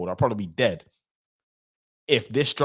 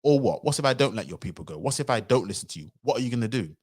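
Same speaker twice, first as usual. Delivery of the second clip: mock defiant Pharaoh. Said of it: "Pharaoh was basically saying".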